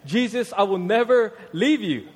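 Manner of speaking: high, hammed-up "never leave you"; mock bold vow.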